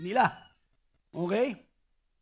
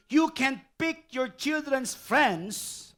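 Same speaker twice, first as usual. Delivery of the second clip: slow quote; 4 semitones higher, much slower than usual. Acted. Quoting slowly for the congregation.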